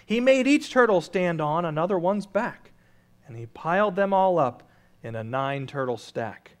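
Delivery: lively rhymed read-aloud; storybook reading. A narrator's reading. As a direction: read it like a bedtime rhyme to the congregation.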